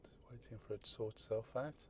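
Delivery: whispered under the breath. Real, not acted. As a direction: whisper so she won't hear. Whispered while filming.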